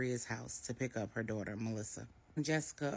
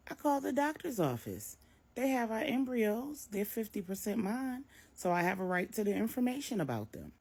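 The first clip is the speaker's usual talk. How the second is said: higher, insistent; agitated son; 9 semitones higher, 3 dB louder than usual. A narrator's reading. Marcus tells his mother he called the doctor, agitated. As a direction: justify yourself.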